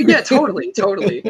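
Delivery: fake agreement. Sarcastic agreement.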